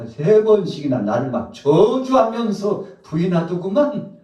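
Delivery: loud, high, taunting accusation; hammed-up reproach, throwing the failure in someone's face; mock attack. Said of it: "상대를 공격할 목적으로". (상대를 공격하듯 높고 크게 비꼬는 연기)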